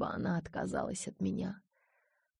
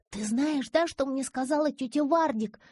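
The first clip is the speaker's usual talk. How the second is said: whispering on the phone; 8 semitones higher, 5 dB louder than usual. A narrator's reading. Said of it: "громко зашептала в трубку".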